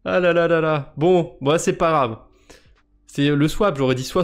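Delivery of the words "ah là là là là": amused ah là là. Real, not acted. Laughing at own blunder.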